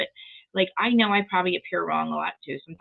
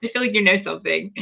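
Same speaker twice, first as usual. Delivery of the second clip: louder, clearer repeat; raised to be heard over the laugh; 5 dB louder than usual. Real, not acted. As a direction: say it again so they hear it. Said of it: "What'd you say?".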